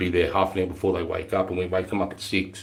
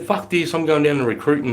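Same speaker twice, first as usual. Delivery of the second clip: high, louder burst of resolve; fired-up outburst; 8 semitones higher, 5 dB louder than usual. Retold or imitated. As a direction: say it like you've just made up your mind. Retelling his own decision.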